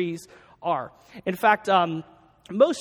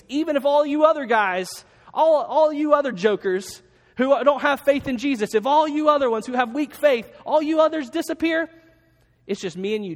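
loud, high, brash boast; boastful Peter; 4 semitones higher, 4 dB louder than usual. Retold or imitated. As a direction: play Peter puffing himself up, loud and high.

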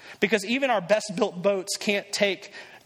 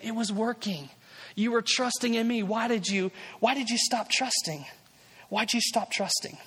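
gentle, not scolding; 2 semitones higher than usual. Acted. Jesus asking Peter why he stopped trusting, gently. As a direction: ask it kindly, without blame. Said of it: "I don't think he says this to him in a way that's scolding".

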